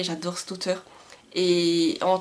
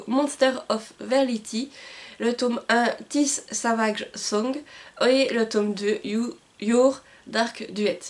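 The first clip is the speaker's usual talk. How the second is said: French-accented English titles; slower than usual. Real, not acted. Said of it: "vous m'excuserez pour mon accent anglais".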